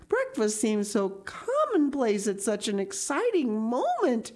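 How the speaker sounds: lightly voiced earnest girl, tone lifted; a touch of girlish rapture and earnest resolve; prattling Anne. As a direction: gush on in eager, dramatic swoops.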